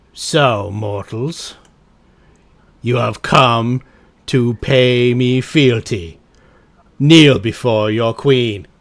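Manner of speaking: slow, loud, commanding queen voice; evil queen. Acted. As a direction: demand fealty from the mortals. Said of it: "she says".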